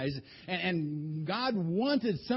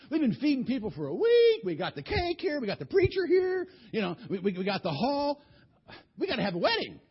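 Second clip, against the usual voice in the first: upset father; 6 semitones higher, 4 dB louder than usual. Acted. Bride's father pleading over costs.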